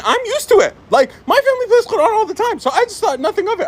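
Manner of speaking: laughing while explaining. Real, not acted. Laughing about being used to Quran playing.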